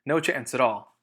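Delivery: snapped refusal. Acted. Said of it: "snapped Miss".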